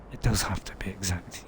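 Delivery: low, soft stern character voice; Ghost. Acted. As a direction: correct them in a low, quiet put-on voice. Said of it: "doing a very good impression of Ghost".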